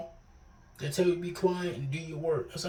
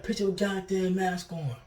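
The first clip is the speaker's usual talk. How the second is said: slow, higher, harsh mock teacher order; retold angry order about a mask; aggressive teacher; 4 semitones higher, slower than usual. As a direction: imitate a teacher snapping at a student. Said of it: "she said it mad aggressively".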